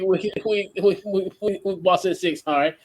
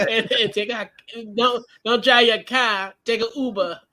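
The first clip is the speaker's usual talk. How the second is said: laughing, higher mock Boston accent; joking Boston accent, pitched up; 5 semitones higher than usual. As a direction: play a Boston fan, dropping the R's. Continues the Boston accent joke.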